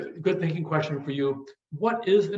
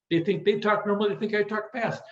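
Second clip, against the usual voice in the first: ordinary delivery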